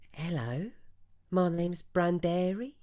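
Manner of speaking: eccentric shopkeeper voice. Acted. Branderi greets the shoppers, high and showy. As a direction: play the rouged, theatrical trader greeting a customer. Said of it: "turns around and goes".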